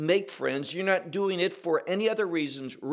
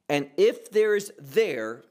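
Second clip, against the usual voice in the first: second "there" leaned on, said a bit louder; stress on there; 4 dB louder than usual. Shown as a demonstration. Preacher reading the verse, weight on the final "there". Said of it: "there's an emphasis on the word there".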